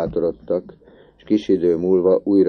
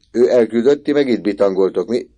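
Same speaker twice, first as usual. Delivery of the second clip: loud, higher scolding; accusing shout; 6 semitones higher, 9 dB louder than usual. A narrator's reading. Boy scolding the loafers, loud accusing voice. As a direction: call them out for loafing.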